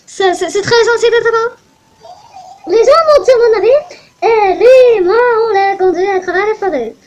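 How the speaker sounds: put-on proud Russian-accented captain hailing the island. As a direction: boom it out like a Russian sea captain. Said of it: "pourquoi je fais un accent russe?".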